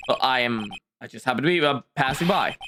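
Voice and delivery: low, hesitant, stuttering voice; low nervous stammering man. Acted.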